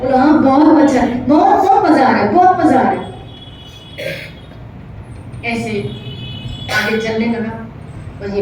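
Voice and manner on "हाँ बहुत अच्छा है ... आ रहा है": put-on high, loud childlike glee; little Gopal loving the ride, high and gleeful; delighted child. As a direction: gush like a happy little kid. Child delighted with window seat.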